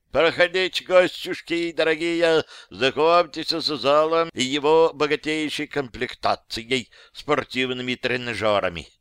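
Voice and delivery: lightly voiced fawning welcome to the visitors; welcoming host. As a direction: play the gracious host covering the mess. Ostapiy greets guests as host.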